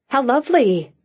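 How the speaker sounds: light, pleased surprise; pleasantly surprised. Acted. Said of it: "she said delightedly".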